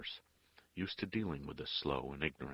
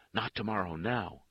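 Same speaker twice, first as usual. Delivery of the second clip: raised, urgent insistence; insistent; 5 semitones higher, 6 dB louder than usual. A narrator's reading. Father refuses to wait till tomorrow, insisting. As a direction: insist loudly, pushing back. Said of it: "he insisted".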